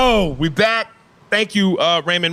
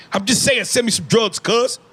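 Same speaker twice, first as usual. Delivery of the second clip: higher-pitched LA gangbanger drawing out vowels; put-on California gang accent, voice pitched up; LA gang member accent; 5 semitones higher than usual. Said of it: "The L A dude?".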